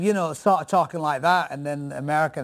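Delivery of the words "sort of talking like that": Northern English accent. Shown as a demonstration. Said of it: "throwback of the Northern English kind of".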